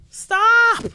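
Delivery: a high, loud "Stop." shouted in disbelief. Real, not acted. Commentator yelling at Jada to quit the book, high and loud.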